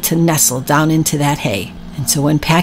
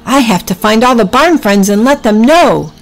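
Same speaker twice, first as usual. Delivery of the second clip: character voice; 7 semitones higher, 3 dB louder than usual. Acted. Packy voiced in story.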